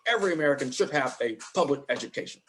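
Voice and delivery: light senator impression stressing certain words; Bernie Sanders. Shown as a demonstration. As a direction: punch "Every American" and "public education" slightly. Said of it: "he'll emphasize certain words".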